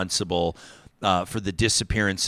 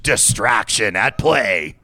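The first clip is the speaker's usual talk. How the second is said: mock exposé; much slower than usual.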